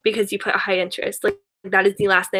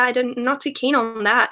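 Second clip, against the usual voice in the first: put-on Australian accent; 2 semitones higher than usual. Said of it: "obsessed with the word keen".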